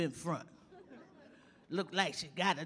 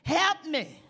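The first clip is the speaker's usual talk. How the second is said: loud, higher panicked call; calling for help; 6 semitones higher, 5 dB louder than usual. Retold or imitated. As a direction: shout as if deaf. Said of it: "I said".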